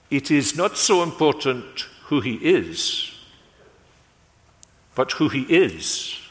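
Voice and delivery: lightly voiced Belgian detective accent. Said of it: "says in his Belgian accent".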